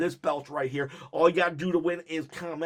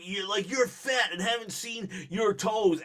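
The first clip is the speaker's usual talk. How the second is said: a hint of Scott Steiner's trash-talking growl; lightly voiced Scott Steiner insult, put on for fun; Scott Steiner impression; 3 semitones higher than usual. Vlogger voicing the wrestler mocking someone's weight, lightly imitated Steiner. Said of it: "it's very much Scotty Steiner".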